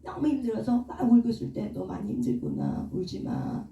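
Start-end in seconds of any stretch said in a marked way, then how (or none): 1.7-3.7 much lower, hushed soothing voice; gentle comforting. Retold or imitated. God comforting a crying believer, low and hushed soothing voice. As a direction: soothe a weeping child, the first words almost breathed. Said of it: "하면서 다독거려 주더라고요".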